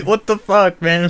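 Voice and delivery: high, loud exasperated what; exasperated outburst. Real, not acted. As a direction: blurt it out in disbelief.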